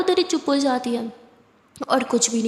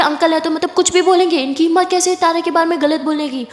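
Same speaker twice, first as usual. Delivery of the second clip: angry retort; 4 semitones higher, 4 dB louder than usual. Acted. Siya defends Tara angrily.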